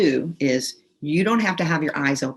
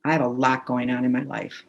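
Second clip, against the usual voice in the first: calm, measured tapping script. Acted. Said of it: "just say out loud".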